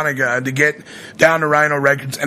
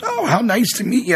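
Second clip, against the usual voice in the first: higher-pitched impression of a radio host's greeting; Doctor Demento; 9 semitones higher than usual. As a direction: imitate him greeting a fan, pitched well up. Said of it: "you almost sounded like him when you just said that".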